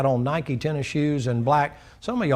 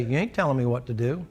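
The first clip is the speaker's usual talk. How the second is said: softer, sullen back talk; quiet defiance; 3 semitones lower, 6 dB quieter than usual. Acted. A person answers God's command, sullen and softer. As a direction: mutter it back at God. Defiant reply to God voiced.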